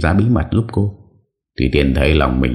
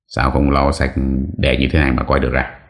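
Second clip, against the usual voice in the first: slightly irritated. Acted. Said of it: "Ông Tính hơi cáu".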